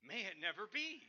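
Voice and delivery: chuckling mock denial; joking about the pastor who hates fish; laughing emphatic no. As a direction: tease it with a laugh. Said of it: "the most emphatic way of saying no".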